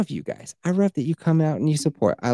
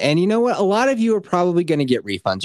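louder, higher sales-pitch voice; hype pitch; 5 semitones higher, 5 dB louder than usual. Acted. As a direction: sell it like a late-night ad. Podcast ad pitch.

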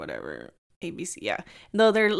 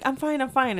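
mimicking friend; 5 semitones higher than usual. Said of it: "the type of person that will be like".

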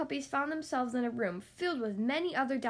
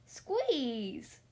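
order. A narrator's reading. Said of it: "ordered Tibbs".

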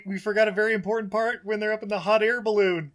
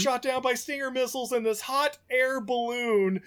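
high, insistent mock-outraged rant; exasperated rant; 5 semitones higher than usual. Podcaster ranting about getting the diamond across the border, exasperated. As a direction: plead the case in strained, high exasperation.

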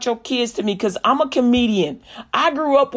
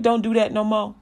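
lightly voiced, lower and softer; forgiving store man; 3 semitones lower, 4 dB quieter than usual. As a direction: quietly let the child off the hook.

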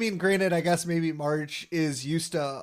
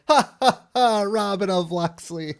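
mock laugh; 3 semitones higher, 4 dB louder than usual. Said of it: "laughing through it".

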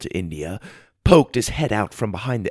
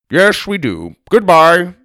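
brusque, getting louder and higher; curt farewell; 7 semitones higher, 6 dB louder than usual. A narrator's reading. Grandpa driving away from the rider, brusque. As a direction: cut the chat off with a firm goodbye.

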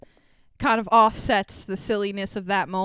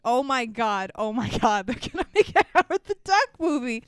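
retold shock. Babbling over and over to a friend, mounting mock shock. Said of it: "I was in shock".

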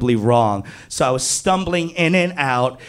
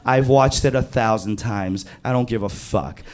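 lower, fast deadpan brush-off; a bored, lower-voiced girl waving it away; bored dismissal; 5 semitones lower, 4 dB quieter than usual. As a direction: shrug him off flatly. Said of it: "She was like".

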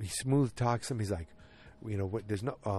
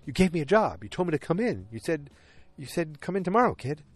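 incredulous Roger; 6 semitones higher, 3 dB louder than usual. Retold or imitated. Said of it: "He goes".

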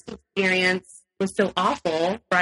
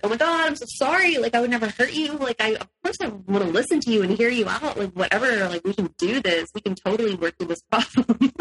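mock groveling apology; 4 semitones higher than usual. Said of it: "I'm just like".

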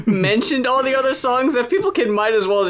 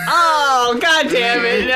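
mock dismay; 4 semitones higher, much slower than usual. Mock dismay on learning it's fake.

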